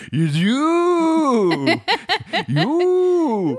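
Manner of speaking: very high, whimpering frail voice; squeaky old-lady cry. Retold or imitated. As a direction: cry out like a frightened granny. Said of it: "I was like".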